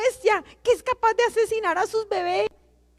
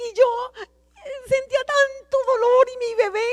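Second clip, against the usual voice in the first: crying; 3 semitones higher than usual. Real, not acted. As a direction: let the tears break the words. Tearful testimony of an abortion.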